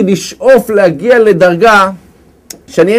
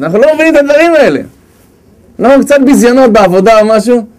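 normal talking voice

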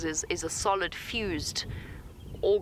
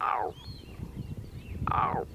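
leopard call. Retold or imitated. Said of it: "my leopard contact call with cubs".

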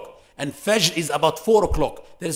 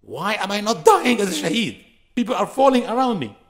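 raised, higher lament at not being taken; upset outcry; 5 semitones higher, 5 dB louder than usual. Real, not acted. Preacher to congregation, upset and raised. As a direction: cry out in real frustration. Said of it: "I am so upset".

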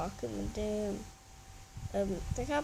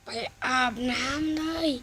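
stern dad; 5 dB louder, slower than usual. Acted. Dad orders son to bathe.

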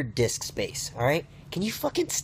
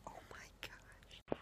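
slow, hushed whisper; awed whisper; 29 dB quieter, slower than usual. Acted. Shown the cutest thing, awed slow whisper. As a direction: whisper it slowly in awe.

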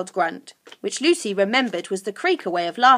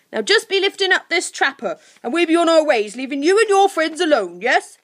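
high, loud creature voice; wheedling creature Guff; 8 semitones higher, 6 dB louder than usual. Acted. Guff to Lucy, wheedling to be set free.

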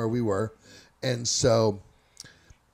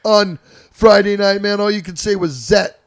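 ribbing schoolmate; 6 semitones higher, 9 dB louder than usual. Retold or imitated. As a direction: drag it out, mocking him. Schoolmate ribbing about Friday.

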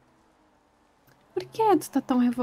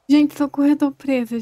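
calling for help. Real, not acted. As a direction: shout to the others for rescue.

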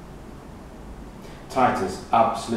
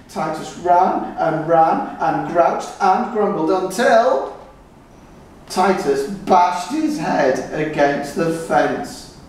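excited narration; 5 semitones higher, 5 dB louder, slower than usual. A narrator's reading. Climax of the story.

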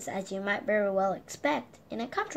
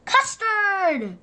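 higher, louder odd voice; delighted exclamation; 9 semitones higher, 5 dB louder than usual. Acted. Mister Nonsense mistaking snow for custard, high delighted cry. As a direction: announce it with glee.

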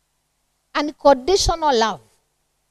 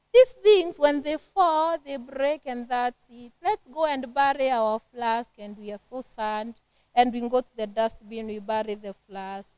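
hushed, gentle mock-sad voice, much softer; soft consoling; 3 semitones lower, 7 dB quieter than usual. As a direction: softly comfort a child over a broken flask. Gently consoling a child over flask.

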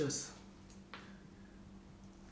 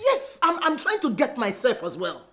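exasperated outburst. Acted. Wife snaps back at husband.

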